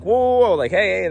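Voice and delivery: sudden high, loud whoa to stop him; startled protest. Retold or imitated. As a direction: call him back in alarm. Stopping a man taking his coffee.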